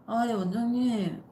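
groggy, slow answer just woken; sleepy voice. Retold or imitated. Employee woken by boss's call, sleepy slow reply. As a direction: mumble like you were woken up. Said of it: "졸린 목소리로".

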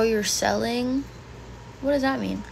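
ordinary delivery

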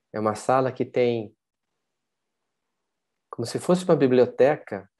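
measured meditation guide, with long pauses; unhurried guided-visualization voice. Acted. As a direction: lead listeners gently inward, leaving room between phrases.

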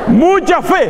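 chuckled "Mucha fe"; laughing. Real, not acted. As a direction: still laughing while speaking. Laughing at own joke.

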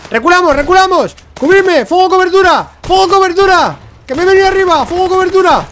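high, loud battlefield yelling; shouted retreat orders. Real, not acted. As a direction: yell urgently for covering fire. Shouting retreat and covering fire. (gritos pidiendo cobertura)

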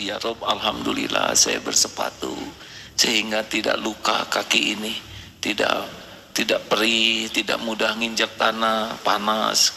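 low, soft grateful prayer; quiet prayer of thanks. Shown as a demonstration. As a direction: murmur thanks like a private prayer. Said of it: "katakan ini". (doa syukur yang lembut dan pelan)

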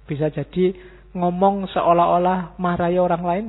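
ordinary talk, nothing marked

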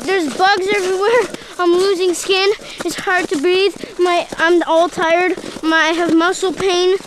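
mock complaint. Child hammily complains after bug fall.

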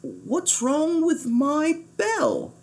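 slow, soft murmur to himself; puzzled murmur under the breath; a soft, slow worried murmur. Acted. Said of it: "he murmured".

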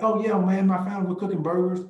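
upbeat shopper reply. Retold or imitated. Shopper telling the agent about family burgers, quick and upbeat. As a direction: answer like a proud dad grilling tonight.

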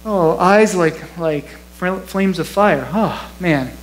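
unimpressed, slowed down and dragging; mock bored reaction. Pastor mocking a yawning reader, mild bored drawl. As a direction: shrug it off like it's nothing. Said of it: "you're not gonna say".

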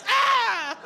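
high, loud mock shriek of disgust; disgusted cry. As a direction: imitate a revolted listener's cry. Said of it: "someone was really disgusted by that".

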